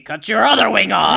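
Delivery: a sudden loud yell of an order; loud command. Acted. Pinky yelling at herself to cut off the other wing, loud and gleeful. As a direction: bark it out like a mad villain.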